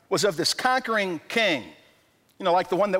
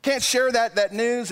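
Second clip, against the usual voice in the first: higher, incredulous protest; disbelief; 6 semitones higher than usual. Retold or imitated. Friend told to keep a pregnancy secret, incredulous. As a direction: complain you can't share the news. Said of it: "And it's just like".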